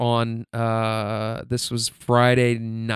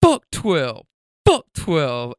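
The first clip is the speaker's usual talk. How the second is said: retold yell; 2 semitones higher, much slower than usual. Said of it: "I yelled".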